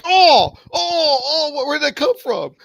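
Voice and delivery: high, whiny mock cry; mock whine. Augie shot by teammate, whining high and loud. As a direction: wail it like a betrayed player.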